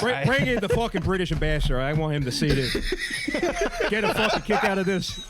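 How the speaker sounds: hammed-up Texan president impression; Lyndon Johnson. President summoning the British ambassador, hammed-up Texan voice. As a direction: order staff about with crude presidential relish. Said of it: "I can do a Johnson".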